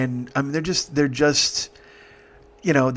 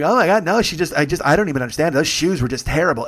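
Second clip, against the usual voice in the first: mock snarky complaint; loud and snarky; 3 semitones higher, 3 dB louder, faster than usual. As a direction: imitate a catty guest judging loudly. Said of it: "loud and aggressive and snarky".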